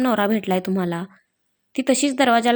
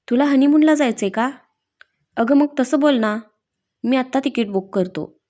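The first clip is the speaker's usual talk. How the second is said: a touch of amused mischief; smiling tease; 2 semitones higher than usual. Acted. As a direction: tease her, grinning. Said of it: "Rudransh गालामध्ये हसत म्हणाला".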